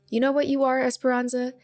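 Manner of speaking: put-on a kid's sneering challenge; taunting. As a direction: throw it at her like a dare. Girls trading insults.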